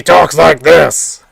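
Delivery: loud, slow, booming luchador bellow; big hammed-up wrestler shout; Strong Bad voice. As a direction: roar it like a masked wrestler on the mic. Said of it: "Strong, but he's like a luchador".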